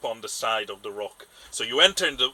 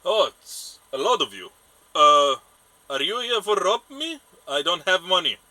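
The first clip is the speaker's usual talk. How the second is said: put-on alarmed old fisherman; 6 semitones higher, 8 dB louder than usual. Fisherman wary of group of strangers.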